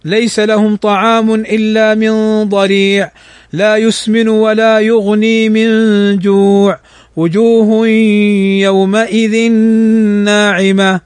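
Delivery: slow, chanted recitation of Surat al-Ghashiya; a steady Quranic chant. Shown as a demonstration. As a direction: recite the surah verse by verse with tajweed.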